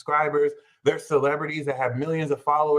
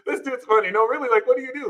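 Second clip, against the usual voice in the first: skeptical professional; 9 semitones higher, faster than usual. Retold or imitated. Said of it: "And they're like".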